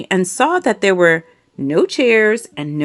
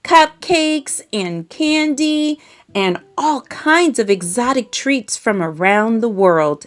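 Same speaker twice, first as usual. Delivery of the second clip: bright, higher show-off voice bragging about treats; boastful city mouse; 3 semitones higher than usual. Acted. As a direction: tempt your country cousin with city sweets.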